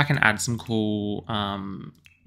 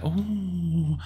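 long, drawn-out "ooh", higher pitched; excited noise; 5 semitones higher than usual. Real, not acted. Player admiring the stucco wallpapers, excited ooh. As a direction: let an excited ooh slip out. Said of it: "I'm getting very excited".

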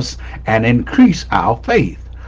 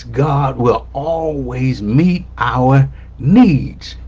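"always" stretched, "needs" set apart slowly; emphatic; slower than usual. Real, not acted. Preacher underlines the main point, slow and emphatic. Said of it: "the thing that I want to emphasize".

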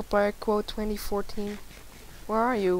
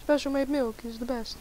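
nurse voice; 2 semitones higher than usual. Pretend. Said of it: "Why am I talking like a nurse?".

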